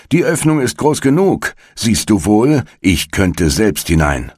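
irritated witch shrieking; impatient witch. A narrator's reading. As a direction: show her scornfully how easy it is. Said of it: "sagte die Alte".

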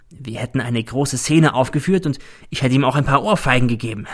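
a hint of a scheming old crook, confiding; Cäsar. Cäsar confides the plan to his colleague, sly.

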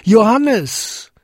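hoher, lauter, langgezogener Ruf Johannes; so laut er konnte. Acted. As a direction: Johannes aus voller Kraft hinunterrufen. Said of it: "rief er, so laut er konnte". (Jakob ruft verzweifelt seinen Sohn Johannes, hoch und laut)

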